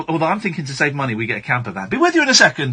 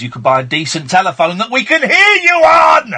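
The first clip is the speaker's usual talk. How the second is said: raised voice; 3 semitones higher, 6 dB louder than usual. Real, not acted. Complaining about bad phone line.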